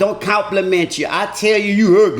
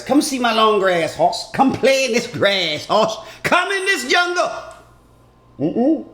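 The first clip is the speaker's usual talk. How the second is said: mock seductive woman; 2 semitones higher than usual. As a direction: lure him in like a hammed-up temptress. Woman inviting him, seductive.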